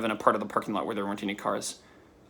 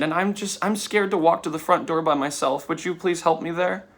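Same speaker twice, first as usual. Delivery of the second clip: mildly voiced, higher-pitched anxious plea; a touch of a frightened woman's voice; imitating scared woman; 4 semitones higher than usual. Scared woman asking a stranger to walk her to the door, lightly imitated pleading. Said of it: "on the verge of tears".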